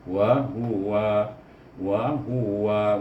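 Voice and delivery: wa with lips pushed forward; slow, pouted lips on wa; over enunciating. Shown as a demonstration. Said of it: "waw, ingat mulut, ya, memoncong sedikit".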